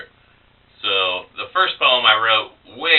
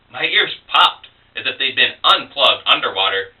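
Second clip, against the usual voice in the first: expressive poem reading, pitch lifting and settling by phrase; poem recital. Acted. Poet reads a second poem about sighting a UFO, expressive recital. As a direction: read the verse aloud with measured, deliberate phrasing.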